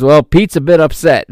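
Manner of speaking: a touch of fake British; horrible British accent. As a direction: imitate the commentator in a bad British accent. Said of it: "apologize for that horrible British accent".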